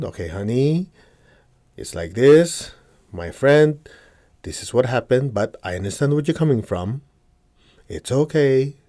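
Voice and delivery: gentle, reassuring tone; calm them with kind words, honey. Shown as a demonstration. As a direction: soothe an upset person. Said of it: "Use calming words".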